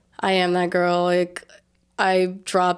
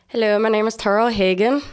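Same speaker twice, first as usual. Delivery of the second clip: Irish accent; faster than usual. Shown as a demonstration. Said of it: "I actually do a really good Irish accent".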